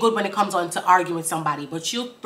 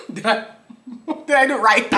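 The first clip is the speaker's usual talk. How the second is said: giggling through the question, higher and louder; laughing; 7 semitones higher, 5 dB louder, faster than usual. Real, not acted. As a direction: ask it while cracking up. Host laughing at own rendition.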